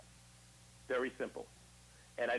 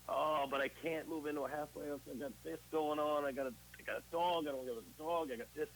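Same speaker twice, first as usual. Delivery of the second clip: higher, pleading voice full of excuses; whiny excuses; 4 semitones higher than usual. Retold or imitated. Recovering addict whining excuses to a blunt old-timer. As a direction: whine out the excuses to him.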